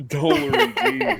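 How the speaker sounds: high, slow laughing echo. Real, not acted. Friend echoing favorite Simpsons bit, laughing. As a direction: squeeze the words out through laughter.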